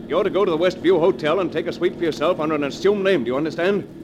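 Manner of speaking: loud, firm commands to his accomplice; commanding orders. Acted. Husband ordering the accomplice Jason, loud and commanding. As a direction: bark out the plan, no argument.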